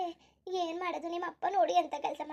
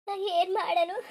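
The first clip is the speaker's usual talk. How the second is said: crying out helplessly, voice breaking; tearful wail; 2 semitones higher, 4 dB louder, much slower than usual. Acted. Mother sobbing over her missing daughter, crying. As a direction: sob the question out, lost for what to do.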